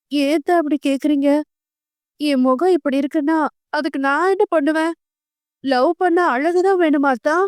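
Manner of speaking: a touch of tearful pleading; choked-up voice. Acted. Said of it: "குரல் கமற கேட்டான்".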